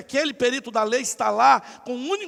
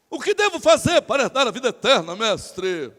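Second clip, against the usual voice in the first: loud declamation dropping at the end; hammed-up public speech to the master; oratorical legal expert; 5 dB louder than usual. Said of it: "ele discursa assim". (discurso teatral declamado em público)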